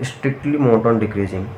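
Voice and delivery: slow and deliberate, leaning on "strictly monotone decreasing"; slow, stressed term. Shown as a demonstration. Teacher slowly stressing the new term for students. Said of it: "इसलिए इस case को बोलेंगे".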